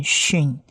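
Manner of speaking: "Shin" begun with sh, not plain s; Sh sound in Shin. Shown as a demonstration. Teacher contrasting dot positions for learners, "Shin" pronounced with sh. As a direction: say "Shin" with a clear sh onset. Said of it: "如果它的黑点是在右上方".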